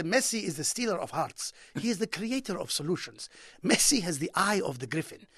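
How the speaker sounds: lightly voiced impassioned Arab commentator; passionate commentator. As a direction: translate the goal call with a touch of grandiose fervour. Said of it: "They're very passionate".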